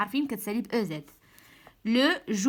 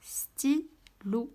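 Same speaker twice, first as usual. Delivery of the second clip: whispered word; 3 semitones higher, much slower than usual. Acted. Teacher writing on the board, slowly whispering the word.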